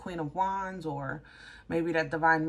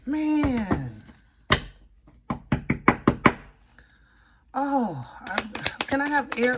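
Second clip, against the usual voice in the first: rising excitement, higher and louder; building to an epiphany, breathless; excited; 5 semitones higher, 5 dB louder than usual. Real, not acted. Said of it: "I'm getting excited".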